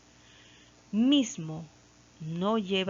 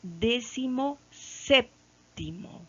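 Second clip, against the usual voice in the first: slow, lifted and spelled out: "Décimo séptimo"; showing the class the new word slowly; slow demo; 4 semitones higher, slower than usual. Shown as a demonstration. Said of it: "Será así".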